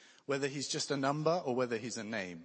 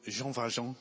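self-mocking French accent. Shown as a demonstration. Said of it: "my terrible French accent".

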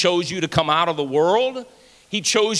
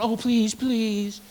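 mock begging; 3 semitones higher, 4 dB quieter, much slower than usual. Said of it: "He's not going".

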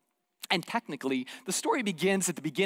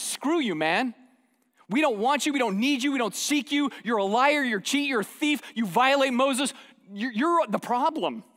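angry religious leaders; 6 semitones higher, 4 dB louder than usual. Retold or imitated. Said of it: "religion looks at that and says".

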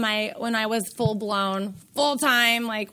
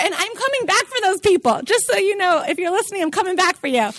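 emphatic vow; 7 semitones higher, 5 dB louder than usual. Real, not acted. Emotional vow to struggling mothers.

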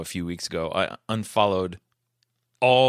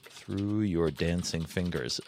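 slow, quiet, spoken while typing; slow dictation; 2 semitones lower, 5 dB quieter, much slower than usual. Real, not acted. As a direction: dictate it word by word as you type. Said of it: "I'm typing a, um, a possible title".

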